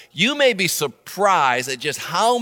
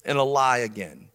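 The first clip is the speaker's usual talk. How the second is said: tag; 3 semitones higher than usual. Retold or imitated. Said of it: "you're saying".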